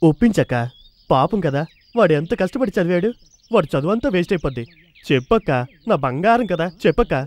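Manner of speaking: low, wheedling appeal; coaxing plea. Acted. Brother coaxes his sister to persuade her husband, pleading.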